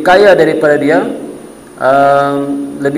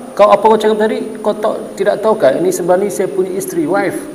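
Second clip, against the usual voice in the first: mock confrontation; 4 semitones higher than usual. Husband confronting flirting man.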